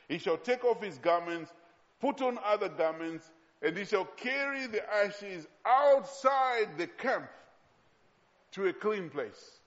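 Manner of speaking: deliberate verse reading, swelling on the key phrase; emphatic scripture reading. Acted. Preacher reads out carrying the ashes outside the camp, emphatic scripture reading. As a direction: read it out phrase by phrase, building weight.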